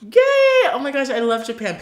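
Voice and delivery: overjoyed shriek, then quick gushing; thrilled. Real, not acted. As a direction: burst with delight at the mention. Thrilled by fan mentioning Japan.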